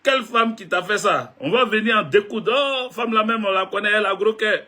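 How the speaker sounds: a hint of protective mamans ready to fight; mothers' voice. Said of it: "Les mamans ont appelé".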